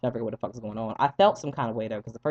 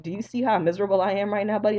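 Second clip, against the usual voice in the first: miserable retort; 6 semitones higher, 4 dB louder than usual. Retold or imitated. Mocking reply to doctor.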